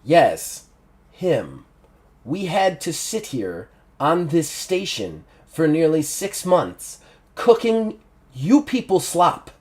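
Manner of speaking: a butcher savouring his threat; menacing Big Ned. Acted. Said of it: "and goes".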